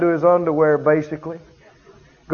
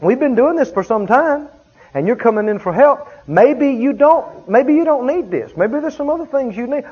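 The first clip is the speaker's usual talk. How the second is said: raised, pointed voice; firm, strong; 6 semitones higher than usual. Retold or imitated. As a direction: lay it down firmly with the person. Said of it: "I was saying".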